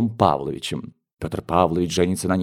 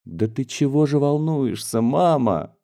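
puzzled daughter; 4 semitones higher than usual. Acted. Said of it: "удивлялась Юлия Николаевна".

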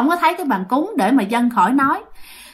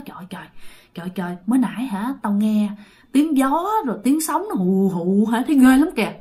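frightened telling. Retold or imitated. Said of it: "Bạn sợ lắm".

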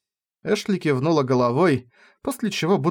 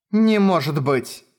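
worried cry from inside a helmet; alarmed, voice muffled by a helmet; 2 semitones higher, slower than usual. Acted. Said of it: "Из-под шлема раздался встревоженный голос".

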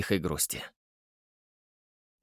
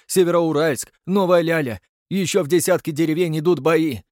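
breathless report read off paper; out of breath; 5 semitones higher, 4 dB louder than usual. Acted. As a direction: pause for breath between phrases. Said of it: "говорил так, будто читал по бумажке, прерываясь, чтобы отдышаться". (запыхавшийся доклад)

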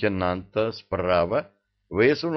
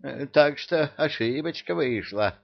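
muttering emir; 6 semitones higher than usual. Acted. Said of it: "бормотал эмир".

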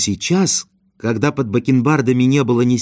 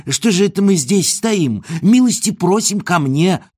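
put-on much higher, hurried flustered old man; 7 semitones higher than usual. A narrator's reading. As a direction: bustle him inside in a fluster. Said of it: "заволновался старик". (взволнованно, высоко)

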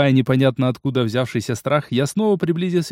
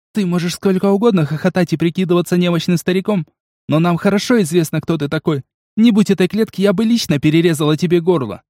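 hateful woman; 5 semitones higher than usual. Acted. Amazon threatens hated old man.

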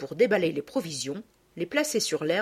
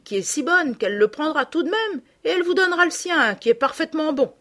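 a raised, louder country lad's voice; rustic lad, cheerfully blunt; peasant boy consoling; 4 semitones higher, 3 dB louder than usual. Acted. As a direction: talk like a blunt farm boy comforting a girl. Nicaise's son talks to Sophie.

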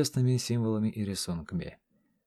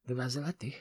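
curt; 3 semitones higher, 6 dB quieter than usual. A narrator's reading. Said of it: "отрезала старуха".

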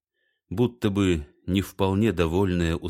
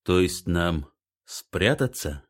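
cautious; slower than usual. Acted. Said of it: "осторожно уточнил Штиллер".

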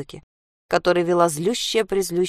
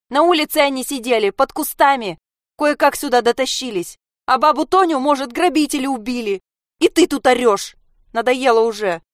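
angry outburst; 7 semitones higher, 5 dB louder than usual. Acted. Sasha shouts at mother.

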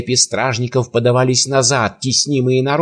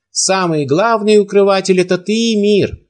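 higher and louder, firm and ringing; 7 semitones higher, 4 dB louder than usual. A narrator's reading. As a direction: unmask the emir with a ringing accusation. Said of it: "твёрдым, звонким голосом". (твёрдо и звонко, громче и выше)

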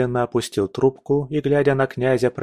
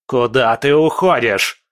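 loud incredulous shout; yelled question; 5 dB louder than usual. Acted. Prince shouts at the departing general, furious. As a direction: bellow after him. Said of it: "заорал".

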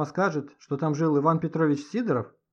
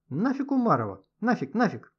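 excited yelling; 8 semitones higher than usual. A narrator's reading. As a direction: shout it away with gusto. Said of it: "завопил Лёха".

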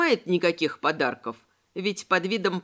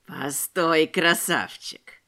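slow, low wheezing thug's voice; wheezed threat; 5 semitones lower, much slower than usual. A narrator's reading. Noseless tramp stopping Robespierre in the dark, slow wheeze. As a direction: rasp it out slowly like a drunken tramp. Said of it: "просипел этот безносый".

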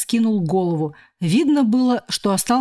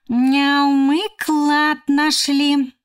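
shouting; 6 semitones higher, much slower than usual. A narrator's reading. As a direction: shout the news of the treasure. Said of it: "крикнул Егорка".

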